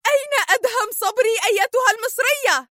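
high, furious demand; angry cry. A narrator's reading. Sonia yelling in anger at Mona again. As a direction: shout it at her captive. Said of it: "عادت سونيا تصرخ في غضب".

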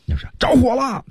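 high-pitched cry of fire; urgent alarm. Shown as a demonstration. Teacher shows how to say the house is on fire, urgent. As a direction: raise the alarm, voice jumping high. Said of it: "都得这么说才行".

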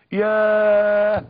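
a slow, loud, stretched sigh of yaah; long drawn-out yaah. Acted. Preacher to his audience, long loud drawn-out yaah. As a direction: let the yaah ring out long and heavy. Second blow to the young man.

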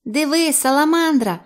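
high-pitched pleased creature voice; вдоволена саламандра. A narrator's reading. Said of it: "вдоволено рохкала вона". (вдоволений високий голос саламандри)

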